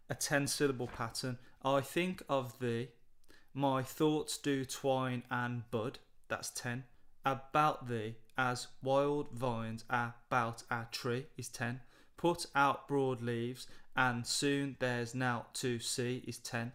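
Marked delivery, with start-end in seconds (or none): 1.6-6.0 slow, measured reading of the verse; slow poem reading. Shown as a demonstration. Reads poem lines slowly. 7.2-11.3 slow, measured reading of the verse; slow poem reading. Shown as a demonstration. Reads poem lines slowly. 12.2-16.2 slow, measured reading of the verse; slow poem reading. Shown as a demonstration. Reads poem lines slowly.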